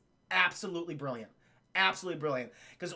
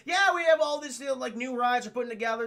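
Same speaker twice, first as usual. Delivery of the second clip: excited spiel; 2 semitones higher, 3 dB louder, faster than usual. Retold or imitated. Park owner pitching new rides to guests, mock excitement. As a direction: launch brightly into an acted pitch. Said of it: "He's very excited about this".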